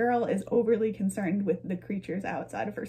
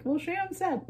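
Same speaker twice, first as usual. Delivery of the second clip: high, soft mock-naive voice quoting her; imitating a viewer who took bad advice; mock quote; 9 semitones higher, 4 dB quieter, slower than usual. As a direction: play a gullible viewer blaming her. Imagined person quoting her advice.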